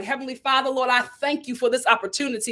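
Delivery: hushed prayer voice; mock prayer. Praying in her car after the audition. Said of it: "I prayed heaven down".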